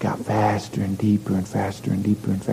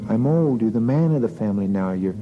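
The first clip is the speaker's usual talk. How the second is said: nagging mother's voice, pitched up; scolding mother; 3 semitones higher than usual. Acted. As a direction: scold the boy like a tired mother. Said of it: "she'd go".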